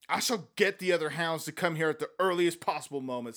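mild savage determination; grimly set, a touch savage. Acted. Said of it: "said Egbert savagely".

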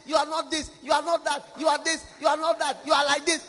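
nagging accusations that build to a shout; mimicking the accuser. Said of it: "which accuse us every day".

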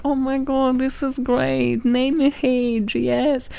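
imitating gushing teachers, slowing down on the praise; mock encouragement. Teacher praising British pupils in Spanish class, mock encouraging. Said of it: "teachers would be, like, encouraging them".

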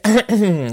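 rough clear of the throat. Real, not acted. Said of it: "ma non ho più voce".

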